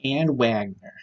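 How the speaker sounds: lightly mimicked grating old woman saying the name; a hint of the annoying old woman from the political ad; annoying old lady voice. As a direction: say "Ann Wagner" like nails on a chalkboard, a mild mock of the ad lady. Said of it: "That's how she says it".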